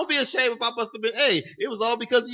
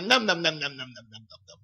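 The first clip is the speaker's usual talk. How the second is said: mock munching; 3 semitones lower than usual. Imitates man eating down there.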